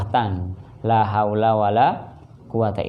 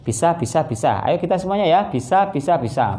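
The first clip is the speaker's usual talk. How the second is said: mock motivational chant, a touch higher; imitating a trainer; 4 semitones higher than usual. Preacher mocking a motivational trainer leading the crowd, chanting. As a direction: hype up the room like a seminar trainer. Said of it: "Pelatihan itu namanya".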